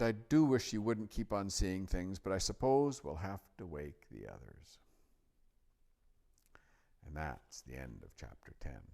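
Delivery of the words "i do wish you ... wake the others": put-on higher, louder boy, settling toward the end; complain, then grudgingly give in; exasperated Edmund. A narrator's reading. Edmund agrees to wake the others, exasperated.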